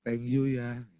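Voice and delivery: acted-out lovey thank-you; affectionate thanks. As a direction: thank them tenderly between little kisses. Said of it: "terus saya cium".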